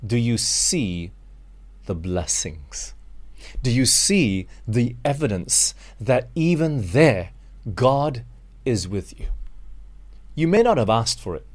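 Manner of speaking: normal talking voice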